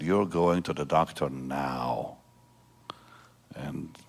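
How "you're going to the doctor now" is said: slow, slightly low, firm retold order. Daughter ordering her ailing father to the doctor, firm and slow. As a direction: imitate a firm daughter, stretching the words. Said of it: "she's always been strong".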